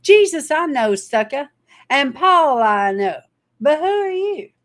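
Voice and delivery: high, loud jeering demon voice; taunting evil spirit. Acted. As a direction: sneer it like a spirit mocking the exorcist. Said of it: "the thing speaks back to him and says".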